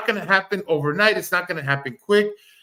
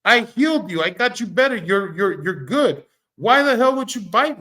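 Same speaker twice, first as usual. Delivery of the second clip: exasperated lady; 6 semitones higher than usual. Retold or imitated. Lady scolding the snake that bit her, high indignant mock voice. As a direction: pitch it up and play the betrayed healer. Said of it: "the lady looks at the snake and says".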